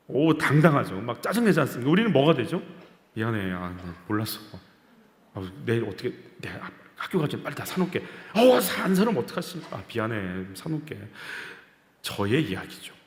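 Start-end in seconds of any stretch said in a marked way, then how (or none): 3.1-8.0 low, soft, sheepish apology; meek apologizing parent. Retold or imitated. Preacher voices himself apologizing to his child, meek and soft. 9.8-11.0 low, soft, sheepish apology; meek apologizing parent. Retold or imitated. Preacher voices himself apologizing to his child, meek and soft.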